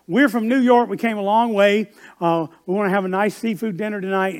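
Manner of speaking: New York mom laying down the law. Retold or imitated. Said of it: "they had that New York accent".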